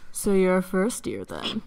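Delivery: put-on boy character voice.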